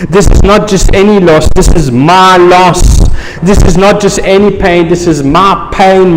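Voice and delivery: preacher's contrast, not against my; contrastive stress. Acted. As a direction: stress "not" in "not just any", then "my". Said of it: "contrast stress not/my".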